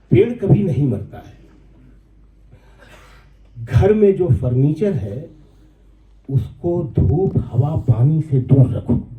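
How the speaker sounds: measured mushaira recitation, pausing between phrases; poem recitation. Acted. Recites his nazm. (नज़्म का ठहर-ठहर कर पाठ)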